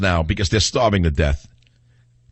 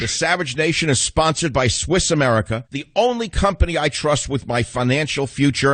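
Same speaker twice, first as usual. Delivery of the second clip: higher-pitched radio ad read; sponsor read; 4 semitones higher than usual. Acted. Host telling listeners about the show's sponsor, ad read. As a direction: deliver a sponsor endorsement on air.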